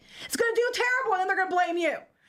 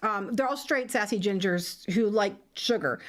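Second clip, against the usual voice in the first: mock showrunner voice; 7 semitones lower than usual. Continues the showrunner mockery.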